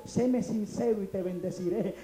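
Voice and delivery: slow, soft and solemn divine voice; voice of God. Retold or imitated. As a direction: speak as God, quietly and slowly. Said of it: "el Señor me habló y me dijo".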